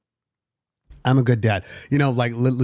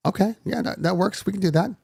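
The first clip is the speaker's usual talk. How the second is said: mock eager agreement; 8 semitones higher than usual. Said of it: "And I'm like".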